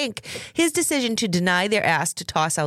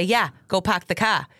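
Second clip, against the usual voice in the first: Boston accent with dropped r's; Massachusetts accent. Shown as a demonstration. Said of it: "Massachusetts accents".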